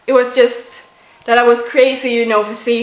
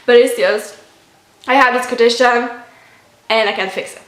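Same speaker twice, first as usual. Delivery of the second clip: emotional; 2 semitones higher than usual. Real, not acted. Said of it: "I don't know why I'm getting emotional".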